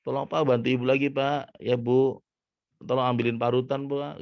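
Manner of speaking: high-pitched wifely request; mother asking father. Acted. Mother asks father to fetch the grater, high calling voice. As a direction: raise the pitch and call for help. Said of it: "Kemudian ibu ini bilang".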